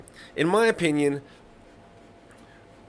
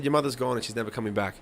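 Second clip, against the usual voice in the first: flat, dry, quick deadpan; 4 semitones lower, faster than usual. Retold or imitated. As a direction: say it cold and matter-of-fact. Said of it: "I said it so fucking clean too".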